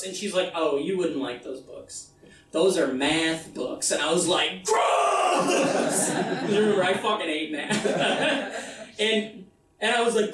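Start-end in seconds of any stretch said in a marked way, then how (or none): 0.5-3.9 lower, slower mom voice, covering up; mom's fib. Retold or imitated. Mom deflects question about books. 4.7-6.1 put-on disgusted kid yell. Kid reacts to math books.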